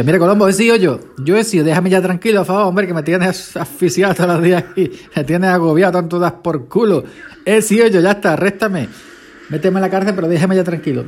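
begging the detective to just arrest him; imitating a worn-out murderer finally giving up; exasperated murderer. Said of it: "Y ya el asesino decía".

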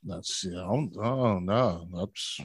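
stifling a laugh, voice squeezed quiet; barely holding in laughter; trying not to laugh. Real, not acted. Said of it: "try not to laugh".

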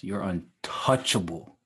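UNTOUCHABLE drawn out slowly; chesty, stretched-out "untouchable"; with your chest. Shown as a demonstration. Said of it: "say it with your chest".

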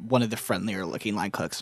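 usual speaking voice

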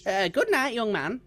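put-on high, fond old lady voice; old woman Margaret. Old lady saying goodnight to a young man, fond. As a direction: bid goodnight as a sweet old dear.

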